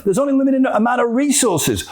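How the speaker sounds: high-pitched mock insistence; insistent claim. Believer justifying competing for stuff, mock insistent. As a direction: state it as an obvious fact.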